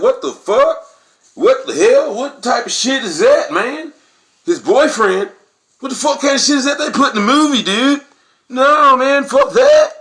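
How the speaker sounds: outraged moviegoers. Retold or imitated. White moviegoers reacting to the movie's twist, shocked outraged yelling. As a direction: shout at the screen like you can't believe it. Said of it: "They was like".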